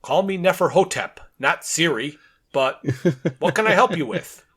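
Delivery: a hint of a machine voice, breaking into laughter; mechanical voice. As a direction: lightly act a talking phone. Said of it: "the phone in a very mechanical voice says".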